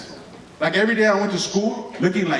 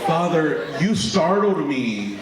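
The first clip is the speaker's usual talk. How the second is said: slow, hammed-up formal drowsiness; mock startled, stretched out; fake waking up; much slower than usual. Kid faking waking up for dad, slow hammed-up drowsy. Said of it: "I pretend like I'm waking up".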